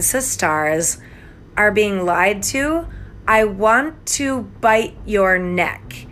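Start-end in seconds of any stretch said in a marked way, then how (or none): 3.3-6.1 slow, lightly menacing bite threat; mock fanged monkey. Teasing Elena, a lightly hammed-up slow fanged threat. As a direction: drag it out like a playful predator. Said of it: "am a wild monkey with fangs".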